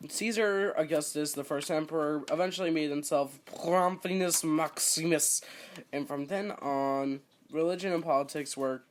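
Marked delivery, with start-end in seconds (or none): 3.5-5.4 drawn-out, punched-up title; mock-ceremonial announcement of a title; grand mock tone. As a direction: proclaim it with playful pomp. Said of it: "I'm gonna say it in that tone from now on".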